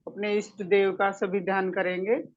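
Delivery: measured meditation guide's voice with pauses; guided meditation. Acted. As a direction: lead them gently into the meditation. (ध्यान कराने वाली शांत, ठहरी हुई आवाज़)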